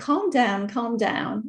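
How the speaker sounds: very gentle, soft, soothing and slow. Retelling own words to a screaming woman: retelling own gentle soft words. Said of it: "in a very just gentle, soft way".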